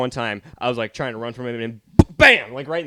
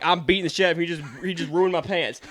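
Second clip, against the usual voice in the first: retold indignant kid; 6 semitones higher, 4 dB louder, faster than usual. Kid answering teacher.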